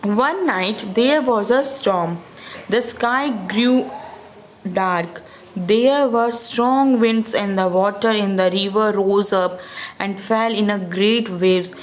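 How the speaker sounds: put-on slow, careful read-aloud for kids; slow storybook reading. A narrator's reading. Storyteller reading Ofrio's thought to children, slow and clear. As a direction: read each word out slowly to the children.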